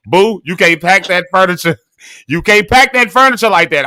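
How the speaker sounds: a mock scolding mother, insisting; imitating mama scolding. Wife warning her husband about packing the truck, mock scolding. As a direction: repeat the warning like a nagging wife. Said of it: "my mama was telling my daddy".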